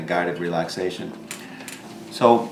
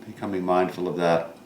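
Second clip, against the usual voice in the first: calm instructor voice with long pauses between phrases; guided meditation; 3 dB quieter than usual. Real, not acted. Yoga teacher guiding seated students to notice their bodies, calm guided meditation. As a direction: guide them gently inward, leaving room after each thought.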